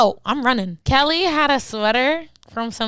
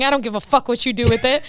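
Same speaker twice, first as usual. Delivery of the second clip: quick, offhand mock dismissal; retold dismissal; 2 semitones lower, faster than usual. Retelling friend handing over the sweater, quick dismissal. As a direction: toss it off fast, imitating a fed-up friend. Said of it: "Kelly came and she was like".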